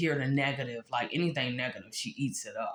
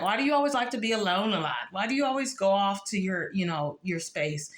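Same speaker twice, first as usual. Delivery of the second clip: mock nagging question; 4 semitones higher than usual. Quoting the woman who asks why she's always alone, mock nagging. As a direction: mimic her prying, quick and pitched up.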